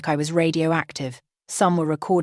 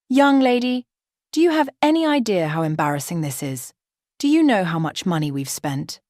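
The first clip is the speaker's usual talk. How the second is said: scolding. Acted. Mother-in-law scolds.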